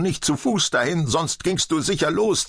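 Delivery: shrill-tempered nagging, pitched high; scolding. A narrator's reading. Mary nags her old father, scolding. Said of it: "zeterte Mary".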